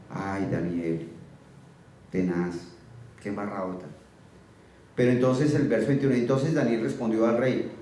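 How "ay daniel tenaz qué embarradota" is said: much lower, softer, mock-grieving sigh; mock lament. King grieving over Daniel's fate, mock lament. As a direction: moan it like a hammed-up mourner.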